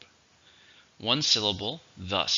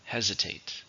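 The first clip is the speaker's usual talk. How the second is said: "Hesitate" with the stress on HES; stress on first syllable; 6 dB quieter than usual. Shown as a demonstration. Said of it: "stress on the first".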